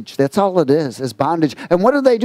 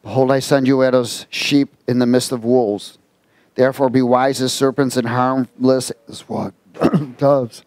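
measured Bible reading; scripture reading. Acted. Preacher reading Matthew ten to the congregation, measured. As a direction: read the verses to the flock.

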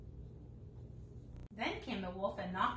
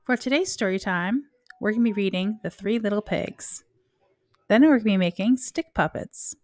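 loud intro; 13 dB louder than usual. Acted. Intro read loudly over music.

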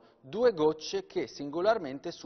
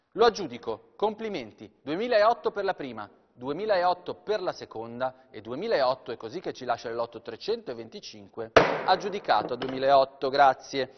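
auctioneer call; 4 dB louder than usual. Real, not acted. Auctioneer closing a lot fast.

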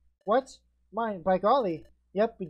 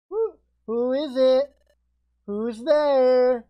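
higher, louder nervous call; startled; 5 semitones higher, 7 dB louder, much slower than usual. Acted. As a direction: call out jumpy into the dark. Startled by mystery voice.

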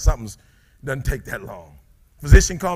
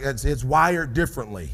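like a nine-to-five worker. Retold or imitated. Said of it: "you just said it like you work a nine-to-five".

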